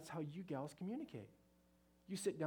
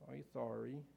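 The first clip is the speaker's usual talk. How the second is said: small, subdued mock-boy apology; sheepish apology; 2 semitones lower, 4 dB quieter than usual. Boy showing Susie respect as he apologizes, sheepish. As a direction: mumble it like a boy with eyes down. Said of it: "He's being very respectful. He's keeping his eyes down".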